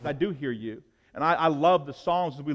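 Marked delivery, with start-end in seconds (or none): 0.0-0.8 soft, low, calm reply; hushed reply from God; gentle voice of God. Acted. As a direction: answer him quietly, like a reassuring father. God answers the praying man.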